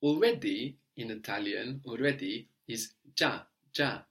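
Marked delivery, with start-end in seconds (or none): 3.1-4.0 già as one syllable with a soft J sound. Shown as a demonstration. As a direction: say "già" with a soft G, the I not heard. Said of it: "making the G soft".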